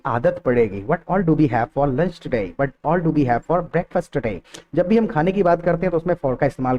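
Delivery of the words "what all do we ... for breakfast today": very slow, word by word; slow model sentence. Shown as a demonstration. Teacher modelling a question for students, very slow. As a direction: stretch each word out for learners. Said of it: "दो तीन बार repeat करोगे".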